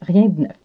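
rien de neuf avec le de écrasé; Quebec French accent. Shown as a demonstration. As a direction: dites Rien de neuf en liant d et n. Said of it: "le brise-glace du jour qui est". (accent québécois)

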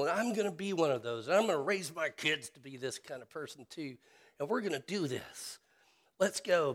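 rally yourself like a gung-ho coach; voicing a self-reliant churchgoer's gung-ho zeal; zealous pep talk. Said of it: "zeal in you that says".

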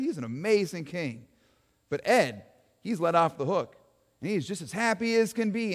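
lightly voiced folksy eyewitness; a hint of a folksy townsman talking to an interviewer; Joe the witness. Eyewitness Joe tells the interviewer Joan about his king, lightly voiced folksy.

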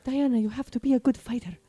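lightly put-on Israeli accent. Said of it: "That's my Israeli accent based off of nothing".

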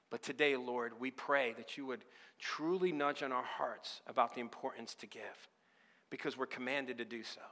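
steady, earnest prayer voice; closing prayer. Acted. The pastor prays over the church, earnest and steady. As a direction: pray over the congregation.

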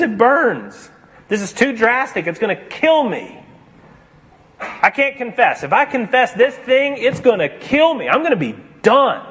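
a ghost terrified of confessing; frightened pleading ghost. A narrator's reading. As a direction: beg like it already burns. Ghost afraid of painful confession.

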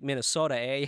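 lightly put-on Minnesota accent; a touch of Minnesotan in the vowels. Podcaster showing how it just sounds, light Minnesota accent. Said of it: "where it just sounds like".

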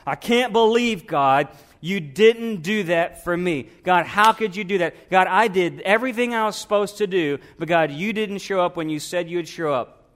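high, loud mock tantrum to God; pouty kid complaining. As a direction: whine at God like a sulking four-year-old. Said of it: "pouty kids like".

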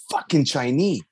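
Chinese cut to "chai-NEE", no final S; retold outburst, Chinese said as "Chinee"; mistaken singular. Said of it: "the guy lashes out".

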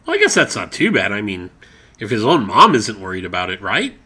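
loud, shouted banter. Acted. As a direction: belt it out like live TV. Segment shouted loudly.

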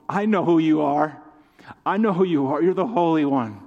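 forceful quoted cry, hammering each phrase; loud declaration. Acted. Preacher quoting the spirit to the congregation, loud declaration.

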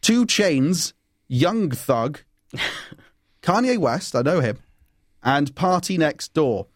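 slow, drawn-out name calling; bingo caller. Real, not acted. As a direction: call the names like bingo numbers. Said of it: "Why'd you say it like a bingo caller?".

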